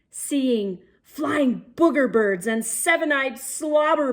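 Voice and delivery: put-on lively read-aloud for young kids; storybook reading. A narrator's reading. Reading a picture book to boys and girls, lively storybook voice. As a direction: paint the adventure for the little ones.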